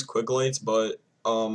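speaking around hookah mouthpiece; talking with mouthpiece at lips. Real, not acted. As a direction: lips pressed on pipe. Seen 0: Holds hookah hose near chin, then at lips from 0.8s.

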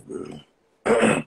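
squeaky crack on bro. Real, not acted. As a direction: voice suddenly breaks high. Voice cracks high on one word.

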